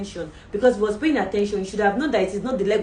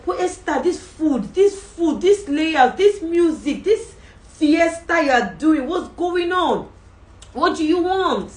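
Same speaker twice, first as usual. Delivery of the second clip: high, loud, slowed royal voice; delighted king; 8 semitones higher, 5 dB louder, slower than usual. Acted. King praises Esther's feast, high and loud. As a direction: play the king, high and ringing.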